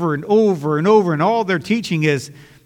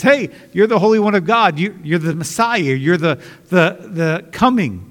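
demon recognizing Jesus. Acted. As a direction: blurt it out, startled, to the Holy One. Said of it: "He says".

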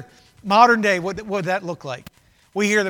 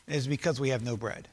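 imitating the disciples; 9 semitones lower, 9 dB quieter than usual. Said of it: "they reason among themselves".

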